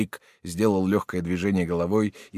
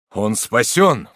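relieved; 3 semitones higher, 9 dB louder, much slower than usual. A narrator's reading. Marshal's relieved exclamation.

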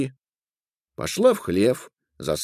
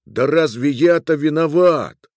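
louder, higher indignant protest; protesting exclamation; 5 semitones higher, 5 dB louder than usual. A narrator's reading. Man protesting to the little being he's blameless, exclaiming. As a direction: protest your innocence with raised voice. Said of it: "воскликнул Миловуш".

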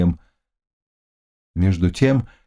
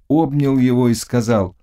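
ordinary delivery

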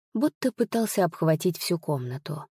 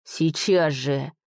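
hoarse command; 3 semitones lower, slower than usual. A narrator's reading. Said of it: "хрипло потребовал он".

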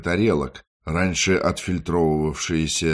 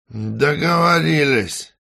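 кричит, уходя; 9 semitones higher, 4 dB louder, slower than usual. Acted. Валерка отзывается, уходя прочь.

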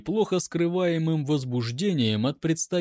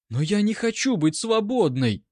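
begging; 6 semitones higher than usual. A narrator's reading. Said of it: "взмолилась Нина".

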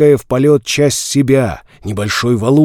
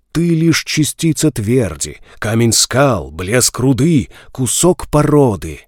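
echoing ethereal energy being. Acted. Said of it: "странный гулкий голос".

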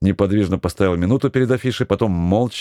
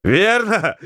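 excited shout; 13 semitones higher than usual. Acted. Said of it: "подхватил со смехом Матвеев".

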